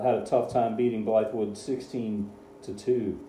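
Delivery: dry sarcastic understatement; deadpan, mock-serious sarcasm. Real, not acted. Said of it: "the sarcasm in my voice".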